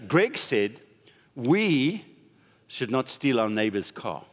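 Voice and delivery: "we" set apart by a pause and pushed up; single out "we" as if only we are bound; stress on we. Shown as a demonstration. Preacher showing how a quote shifts, weight on "we". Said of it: "you can highlight where you feel like the accent".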